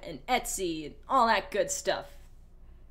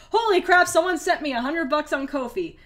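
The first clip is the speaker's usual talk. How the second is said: surprised; 6 semitones higher, 7 dB louder than usual. Real, not acted. Surprise donation of a hundred.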